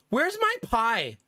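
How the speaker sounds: slow, drawn-out mock toddler question; demanding toddler. Toddler suddenly asking after his pie, drawn-out mock demand. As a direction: imitate a child suddenly checking up. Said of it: "out of nowhere, he goes".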